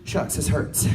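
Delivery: calm shrug over a lost arm; understated, no pain at all; mild mock complaint. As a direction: play it casually unbothered. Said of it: "and be like".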